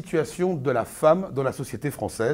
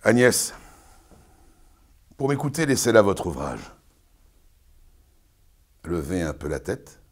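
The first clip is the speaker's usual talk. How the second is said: pompous Arnolphe, lecturing his bride; booming, sermonizing stage declamation; hammy stage actor; 4 dB louder than usual. Acted. Performs Arnolphe's tirade.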